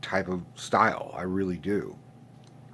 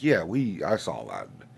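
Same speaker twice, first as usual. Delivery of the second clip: acted unimpressed uncle, sinking in pitch; underwhelmed reply; 3 semitones lower than usual. His own reply to the nephews.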